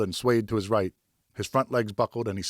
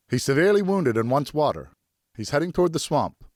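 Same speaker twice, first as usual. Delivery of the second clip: higher, louder urgent report; urgent announcement; 7 semitones higher, 5 dB louder than usual. A narrator's reading. Pear reporting to Geoffroy where the stag heads, higher and louder. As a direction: tell him the stag is fleeing. Tracker announcing blood findings.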